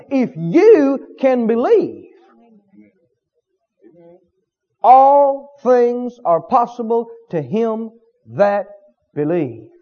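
slow, deliberate words of Jesus; slow solemn quote. Retold or imitated. Jesus answering the father, slow and solemn. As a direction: draw each word out slowly. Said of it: "and said".

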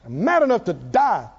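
chuckling through the line; laughing repeat. Retold or imitated. Preacher repeating Jonah's complaint to the congregation, laughing. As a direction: let the rant dissolve into a laugh. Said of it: "you know what Jonah says".

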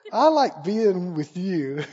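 slow, through soft laughter; a slow giggling whisper of affection; giggly and shy. Pretend. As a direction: confess it like a delighted child. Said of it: "move over a little closer and go".

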